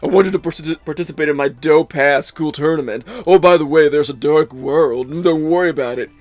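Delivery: hammed-up cartoon villain voice, dotted with little "mm"s; mock dub villain, savouring each phrase; Maximilian Pegasus. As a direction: play the millionaire playboy villain from a dub, drawn-out and mannered. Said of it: "why I'm making that voice".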